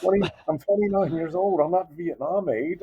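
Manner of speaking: very high, exasperated protest; comic outrage pitched high; retold indignation. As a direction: act out setting someone straight in disbelief. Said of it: "I got so mad".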